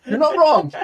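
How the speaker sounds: laughing loudly while agreeing; loud, high, laughing agreement. Real, not acted. Laughing at the face-nappy joke.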